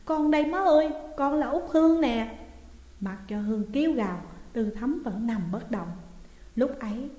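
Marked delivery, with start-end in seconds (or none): 0.1-2.4 higher, louder wail; wailing cry. A narrator's reading. Daughter wailing over her collapsed mother, loud. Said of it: "mà gào lên".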